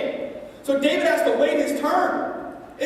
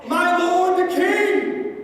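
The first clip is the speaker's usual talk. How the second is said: slow, higher call, a mild retold yell; calling out to the king; 5 semitones higher, much slower than usual. David calling after Saul leaving the cave, slow mild call. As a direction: hail the king from the cave mouth. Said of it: "he yells out to Saul".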